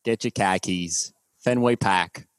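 slow, dropped-r Boston accent; lightly done Boston accent. Shown as a demonstration. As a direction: pahk the car in Hahvahd Yahd. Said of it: "¿Y el de Boston se te hace más fácil?".

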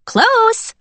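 very high, loud startled cry; high excited cry. A narrator's reading. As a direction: yelp it out, way up high. Cyborg cries out, caught.

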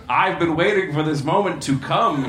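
words pushed out in a mock belch. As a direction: burp the line out, hammed-up. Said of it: "he belched".

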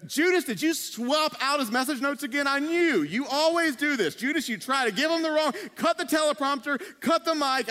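mildly frantic backstage alarm; mock freak-out. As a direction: play a disciple in comic panic. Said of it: "Thomas freaking out".

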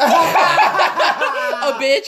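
slow, high, laughing through it. Real, not acted. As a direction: crack up while saying it. Teasing friend about birthday gout.

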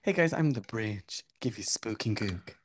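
slow, soft spooky bridge voice; mock spooky talking bridge. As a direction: creep it out slowly and quietly. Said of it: "That's like".

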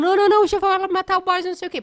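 a group buzzing before the boss fight; excited crowd. Retold or imitated. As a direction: play the eager crowd egging him on. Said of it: "Aí todo mundo".

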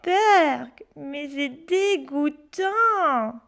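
slow, drawn-out disgust; boy grossed out. Acted. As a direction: drag out dégoûtant in revulsion. Pierre disgusted.

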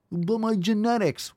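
high whiny "but my genetics"; whiny mock excuse. Coach mocking viewers who blame genes, whiny. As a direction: whine it like a kid making excuses.

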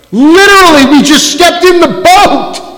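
preacher shouting in disbelief; exasperated exclamation. Real, not acted. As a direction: cry out in disbelief.

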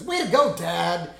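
put-on bright kid cheering her dad; Lisa voice. Lisa voiced, sudden jump.

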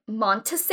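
"Montese" as MON-tuh-say, questioning; unsure read of "Montese", stressed on MON; name mispronounced. Retold or imitated. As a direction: say "Montese" in three syllables, like a question. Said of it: "they couldn't pronounce it".

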